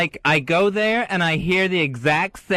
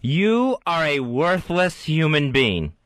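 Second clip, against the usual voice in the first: inner voice; slower than usual. Acted. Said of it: "you be the inner voice".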